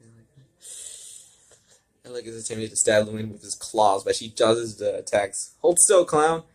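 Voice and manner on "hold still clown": loud, high angry yell; shout. Acted. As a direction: bark at the dodging clown. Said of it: "Alec shouted".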